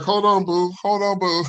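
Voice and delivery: high-pitched brush-off; imitated woman. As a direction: mimic a woman putting her boyfriend on hold. Imitating woman on phone at bus.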